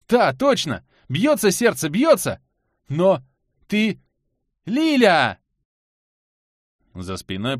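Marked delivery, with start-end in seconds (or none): 0.1-2.4 higher, louder, relieved rush; thrilled she is alive; excited relief. Acted. Anton finds Lilya's pulse, excited relief. 2.9-5.4 high, loud startled call; alarmed cry. Acted. Anton sees Lilya stir, alarmed cry. Anton cries out as she wakes.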